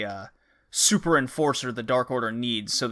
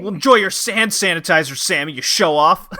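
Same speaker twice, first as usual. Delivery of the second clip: louder, bitter sneer; petty angry jab; 4 semitones higher, 5 dB louder than usual. Retold or imitated. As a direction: sneer it out, annoyed. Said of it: "He's like".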